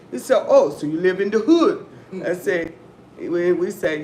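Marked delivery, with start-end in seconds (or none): 0.5-1.9 imitating the waiter, louder, falling hard on "hood"; surprised waiter. Showing how the waiter said it, louder mock surprise. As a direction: repeat his startled question with weight on hood. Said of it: "That's how he said it".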